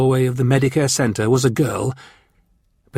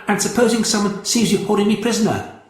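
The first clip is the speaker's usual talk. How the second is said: put-on higher anxious girl voice; worried girl; 10 semitones higher than usual. A narrator's reading. Captive girl warning her captor, higher and anxious. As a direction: press the worry. Victoria's voice.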